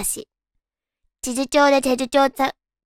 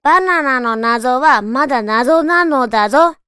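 emphatic tongue twister; 5 dB louder than usual. Shown as a demonstration. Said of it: "私、な行苦手なのかな？".

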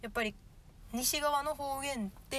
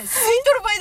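fast, loud rough dialect; gruff dialect; 8 semitones higher, 14 dB louder, much faster than usual. Retold or imitated. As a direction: say it with menace. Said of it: "ドスば聞かせて". (ドスの効いた言い方)

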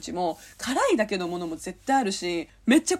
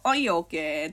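casual, mock easy let-go; easygoing agreement; 3 semitones lower than usual. Acting out the type who accepts a breakup, easygoing. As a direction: agree lightly and walk away. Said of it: "って言って離れていくタイプ".

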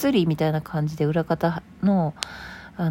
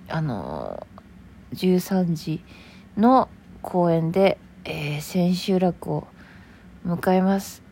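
tired; 3 dB quieter than usual. Real, not acted. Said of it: "もう疲れてしまいました".

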